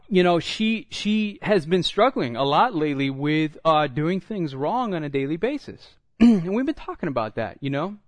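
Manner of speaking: normal talking voice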